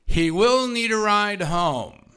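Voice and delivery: loud, slow, drawn-out call; Donald calling out. Retold or imitated. Sponsor calling from the back to his sponsee, pointed. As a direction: call it pointedly from across the room. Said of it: "I hear Donald's voice going".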